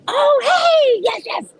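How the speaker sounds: suddenly thrilled to see someone; excited greeting. Real, not acted.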